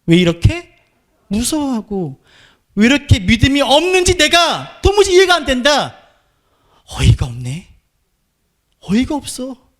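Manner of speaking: a baffled teacher who can't believe his students' lack of faith; exasperated Jesus. Pretend. Pastor voicing Jesus to the frightened disciples, exasperated. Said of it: "라고 주님 말씀하시는 거예요".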